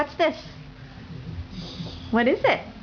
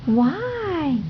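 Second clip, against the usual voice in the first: high modelling why; 6 semitones higher than usual. Shown as a demonstration. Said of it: "Can you say why?".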